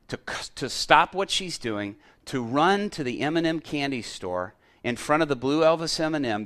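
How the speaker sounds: earnest spoken prayer, steady and intent. Retold or imitated. Preacher praying aloud over a grandmother, earnest prayer. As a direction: pray it aloud in faith over her.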